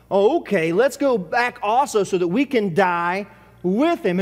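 dry mock-cheerful sarcasm; a sarcastic disciple daring the others to go die; sarcastic Thomas. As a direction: toss it off like a sarcastic shrug. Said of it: "Thomas is being a little bit sarcastic".

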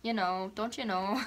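lightly slurred Minnesota accent; a hint of Minnesotan drawn-out O. Shown as a demonstration. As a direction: slur the vowels slightly, Minnesota-style. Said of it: "slur on it".

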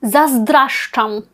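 zazdraszczam said slowly, syllable by syllable; slangy Polish word. Shown as a demonstration. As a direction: say Заздращам slowly, each syllable clear. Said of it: "Для когось може прозвучить окей".

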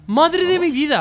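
loud high cry of disbelief; exclamation. Real, not acted. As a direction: repeat it, still amazed. Finally beats hard level.

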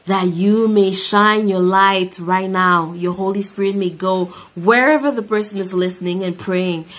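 earnest spoken prayer voice. Real, not acted. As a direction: pray over the listeners. Leads a closing prayer.

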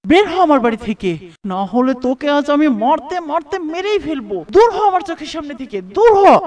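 furious, loud tirade at his wife; angry shouting. Acted. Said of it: "রেগে বলে". (রেগে চিৎকার করে)

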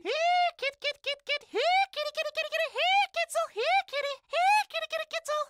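faint far-away calls for the cat; calling from far off. Retold or imitated. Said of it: "they're calling my name".

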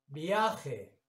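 "viaje" with the A stressed, then falling. Shown as a demonstration. Teacher pronouncing a word to locate its stress, stressed A. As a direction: lean on the A in "viaje". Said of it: "vocal que suena más fuerte".

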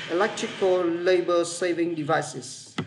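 very slow, deliberate phrase read; teacher slowly modelling a phrase; slow model reading. Shown as a demonstration. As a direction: spell each word out at half speed. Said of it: "nó sẽ đọc từ này là".

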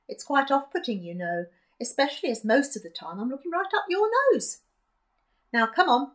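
lightly voiced chatty granny; old woman voice. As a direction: chat like a spry little granny. Granny G character voice.

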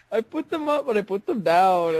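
put-on sing-song take on a botched Austrian accent; mock Austrian accent attempt. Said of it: "didn't even sound like, like what you were going for".

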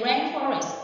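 "rainforest" with the weight on RAIN; RAINforest, as a teacher models it; stress on RAIN. Shown as a demonstration. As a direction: lean on the first syllable of "rainforest". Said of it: "it is on the rain".

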